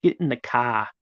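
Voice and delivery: light Boston accent, "cah" with no r; a hint of Boston, dropping the r. Shown as a demonstration. Streamer showing off a light Boston accent. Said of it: "I can do Boston".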